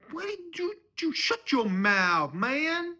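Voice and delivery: high screamed comeback; furious shout. Acted. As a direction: scream at him to shut him up. Father-in-law snaps back in quarrel.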